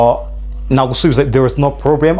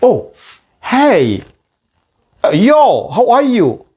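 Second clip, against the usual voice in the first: high, lively "hello", "hey", "yo"; casual greetings; 6 semitones higher, slower than usual. Shown as a demonstration. Teacher acting casual greetings from afar, lively. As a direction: wave and call out to a friend at a distance. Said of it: "oh, you say".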